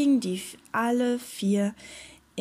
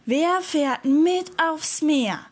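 slow, higher call; 5 semitones higher, 3 dB louder, slower than usual. A narrator's reading. Little pirate seeking companions for the sea, calling out. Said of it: "rief er".

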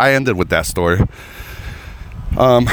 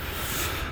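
soft sigh; 15 dB quieter than usual. Real, not acted. Sigh after shameful bombing remark.

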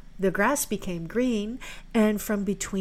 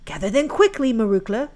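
calling out; 2 semitones higher, 8 dB louder than usual. Acted. June calls out.

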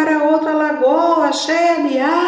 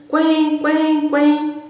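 loud high quacking; duck quacks; 9 semitones higher, 4 dB louder, much slower than usual. Acted. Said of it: "dois patos gritando".

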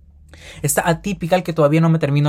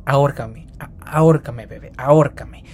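mock pleading. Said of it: "veo Netflix y digo".

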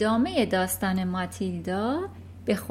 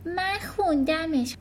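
put-on slow, higher little-girl voice; Matilda, softly; 8 semitones higher than usual. Little girl telling the headmistress she read it, softly. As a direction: say it gently, a small girl. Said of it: "ماتیلدا به آرومی گفت".

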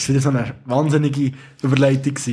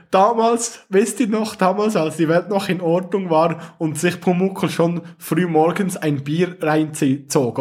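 reading a meme; slower than usual. Shown as a demonstration. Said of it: "es steht echt so oben drüber".

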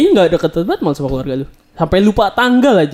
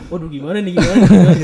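imitated fluster, building louder; mock panic; 4 dB louder than usual. Startled child panicking along with dad, retold mock panic. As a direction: repeat it in a laughing, rising fluster. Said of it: "Ikut panik gitu".

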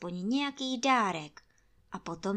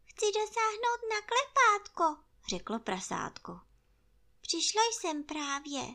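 much higher little piglet voice; squeaky and small; tiny piglet; 13 semitones higher than usual. Acted. Ferkel, hohe Stimme.

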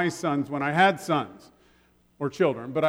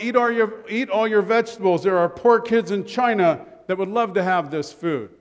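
higher, a hint of a nagging father; mock stern dad; 4 semitones higher, 4 dB louder than usual. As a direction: nag the kid to finish his plate. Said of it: "my dad would say something like".

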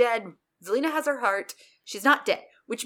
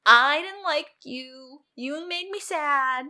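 slow, higher-pitched list of grievances; mock aggrieved; 5 semitones higher, 3 dB louder than usual. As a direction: act out a drawn-out, wounded complaint. Acting Belle's list of grievances.

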